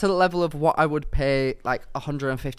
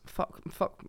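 hushed curse under breath; whispered swearing; 11 dB quieter than usual. Real, not acted. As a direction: whisper it in dismay. Realising short run distance.

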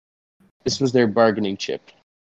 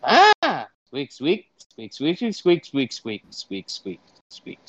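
mock squirrel language, squeak by squeak; squirrel talk; 3 semitones higher, slower than usual. Interpreter talking to a squirrel in squirrel squeaks. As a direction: chatter in quick squirrel squeaks.

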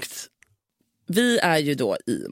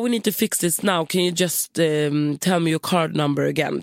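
put-on Spanish accent. Receptionist insisting at night, Spanish accent. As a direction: press her for the card in a mock Spanish accent. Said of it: "spansk brytning".

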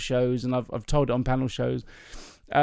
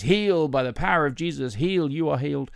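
lightly voiced Baptist healer; a hint of a preacher laying on hands; faith-healing minister. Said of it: "one of these ministers".

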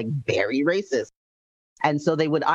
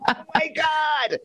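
high, slow, drawn-out shock; stunned exclamation; 13 semitones higher than usual. Retold or imitated. A girl hearing a stranger sound like her dad, stunned. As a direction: let the shock hit you late.

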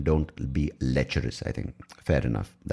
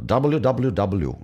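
Scottish attempt slipping into Irish; mock Irish accent; accidental Irish accent; 6 semitones higher, 4 dB louder, much slower than usual. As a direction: spell it out in a rough Irish lilt. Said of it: "that's Irish".

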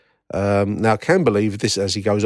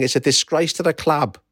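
higher-pitched mock yell, no real volume; lightly acted, raised-pitch protest; retold yell; 6 semitones higher than usual. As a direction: imitate an outraged woman's yell, held back. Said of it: "One woman ran forward yelling".

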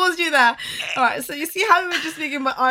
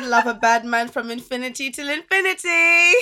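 mock quote; 3 semitones higher than usual. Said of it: "She said".

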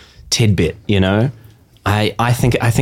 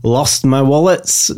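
mock Scottish accent; slower than usual. Shown as a demonstration. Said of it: "no, that's Scottish".

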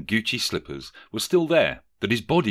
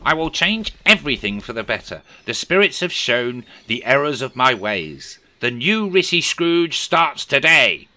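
resolute Scrooge; 5 semitones higher, 6 dB louder than usual. A narrator's reading. Scrooge vowing to change at his nephew's door, grand and loud. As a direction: declare the new self grandly.

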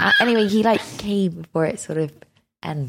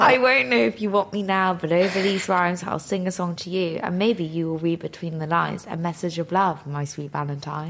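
cheesy lyrics read, trailing softer; half-crooned valentine lyrics; a hint of a mock love song; mock serenade reading; 2 semitones lower, 3 dB quieter than usual. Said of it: "sing it".

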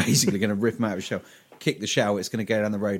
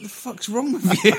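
high, slower laughing outrage; higher, laughing mock outrage; laughing disbelief; 11 semitones higher, 5 dB louder than usual. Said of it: "I was like".

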